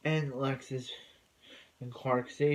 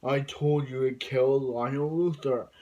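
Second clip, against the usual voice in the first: mock insistent shout; 5 dB louder than usual. Villain insisting Clark obey.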